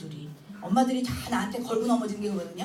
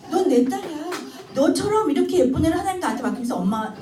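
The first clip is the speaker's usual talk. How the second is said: louder, bright playful mother voice; 4 semitones higher, 5 dB louder than usual. Retold or imitated. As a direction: gush over the child, a bit hammed-up. (딸에게 신나게 말하는 엄마)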